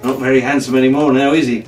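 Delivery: lively adventure read-aloud; storyteller building suspense; story narration. A narrator's reading. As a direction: read it like a bedtime adventure serial. Reads adventure novel aloud.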